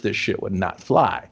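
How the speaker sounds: a hushed, half-swallowed whisper; whispered aside. Real, not acted. A critic pointing out the double standard, whispering. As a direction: drop to a whisper for the punchline.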